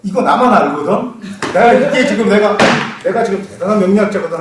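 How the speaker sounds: imitating a loud self-satisfied braggart; boastful bragging. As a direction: show off like you alone know the secret. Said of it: "밝히고 떠듭니다".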